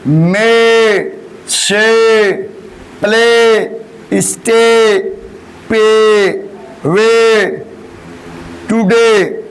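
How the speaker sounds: each word drawn out clearly for the class; teacher modelling words. Shown as a demonstration. Teacher reads example words aloud to class, carefully articulated. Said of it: "तो पढ़ेंगे".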